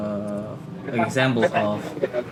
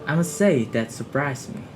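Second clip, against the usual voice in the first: higher-pitched surprised remark; 4 semitones higher than usual. Shown as a demonstration. Student demonstrating an expression of surprise, surprised. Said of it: "And expression of surprise is".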